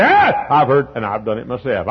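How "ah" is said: mock disgust. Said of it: "sometimes we say".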